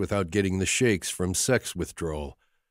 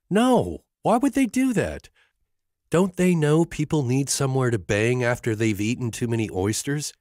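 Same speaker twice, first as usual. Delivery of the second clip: dismayed outcry; 5 semitones higher than usual. A narrator's reading. Emma finding the door locked, comic despairing outcry. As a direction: wail it like a tragedy.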